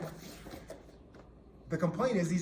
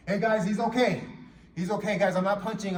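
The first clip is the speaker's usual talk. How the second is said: calling to onlookers; 3 semitones higher, 6 dB louder than usual. Pretend.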